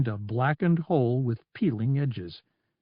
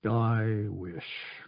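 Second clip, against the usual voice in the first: regretful; 4 semitones lower, 7 dB quieter than usual. A narrator's reading. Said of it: "He gave the Admiral a regretful look".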